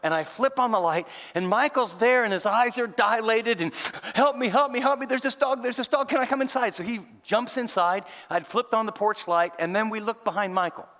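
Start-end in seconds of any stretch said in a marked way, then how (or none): 4.1-6.8 much higher, breathless and rushed; frantic pleading. Retold or imitated. Terrified kid at the door begs the pastor for help. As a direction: beg for help as if chased. Boy fleeing dog at door.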